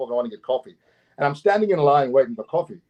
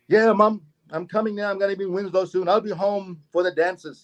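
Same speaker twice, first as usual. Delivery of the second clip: son on phone to mother; 4 semitones higher than usual. Retold or imitated. Voices man phoning his mother.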